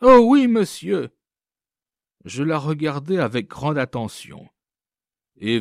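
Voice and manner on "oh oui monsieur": eager high burst of yes; quick, loud and keen; without hesitation. A narrator's reading. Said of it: "répondit cette fois sans hésiter".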